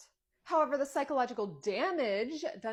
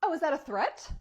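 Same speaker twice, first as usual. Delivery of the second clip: indignant challenge; 6 semitones higher, 7 dB louder than usual. Acted. Mother bristles at teacher's warning.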